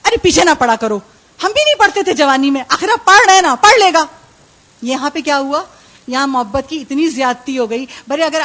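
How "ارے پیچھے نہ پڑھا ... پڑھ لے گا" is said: indulgent father. Retold or imitated. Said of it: "والد صاحب بھی بہت محبت میں آ گئے".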